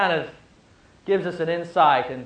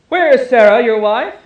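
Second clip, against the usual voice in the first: booming angel; 6 semitones higher, 10 dB louder than usual. Acted. Angel asks Abraham in story.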